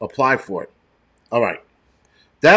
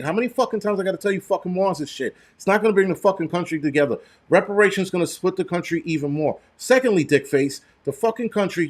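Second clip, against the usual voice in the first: heated rant; 4 semitones higher than usual. Real, not acted. Streamer ranting at a viewer about reparations, angry. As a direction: pitch raised, words spat out fast in a furious tirade. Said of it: "I'm sorry for going on this fucking rant".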